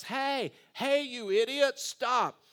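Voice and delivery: shouting as the left-behind passenger; retold screaming. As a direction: yell after a departing bus. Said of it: "A man starts screaming".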